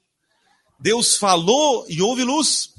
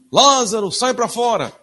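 loud, high mock command, like a cartoon; hammed-up shout calling the dead out; preacher mocking the childish cartoon version of Jesus; cartoon-style booming call; 4 semitones higher, 4 dB louder than usual. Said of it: "a gente imagina assim, ó, Jesus falando assim".

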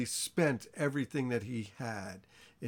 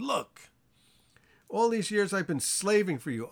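resentful son; 6 semitones higher, 4 dB louder than usual. Retold or imitated. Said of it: "the older brother became angry".

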